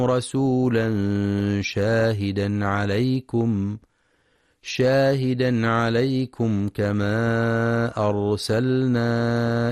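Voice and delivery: Quranic recitation. Acted. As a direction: chant the verse with long vowels. (تلاوة مرتلة بصوت مرتفع)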